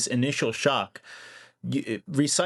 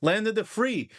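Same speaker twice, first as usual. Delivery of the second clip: mock insurance salesman; 2 semitones higher than usual. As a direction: play a fake-friendly insurer selling you a pricey quote. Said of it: "they suddenly say".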